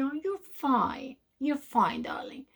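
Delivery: soft, slow, condescending whisper; mock patronizing hush. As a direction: pat them on the head with a hushed voice. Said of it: "have you heard people saying".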